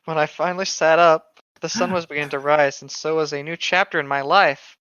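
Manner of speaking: hammed-up storyteller read; dramatic story reading. Reading a fan story aloud to a friend, hammed-up narration. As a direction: read the creepypasta like a mock-serious tale.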